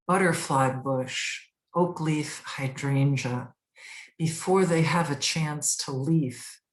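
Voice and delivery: measured poetry recital, pausing at line breaks; poem reading. Acted. Poet presenting a spring garden poem to viewers, measured recital. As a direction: read it as verse, each phrase set apart.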